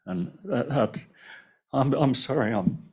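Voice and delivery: choked up, fighting tears; emotional. Real, not acted. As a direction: voice breaking with emotion. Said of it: "so emotional about this".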